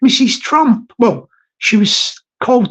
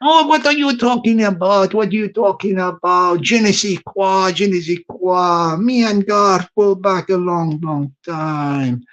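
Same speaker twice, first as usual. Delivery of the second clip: put-on Macron, French accent; 2 semitones lower, 3 dB quieter than usual. French president answering a telling-off, mock French accent. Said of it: "President Macron, I don't think".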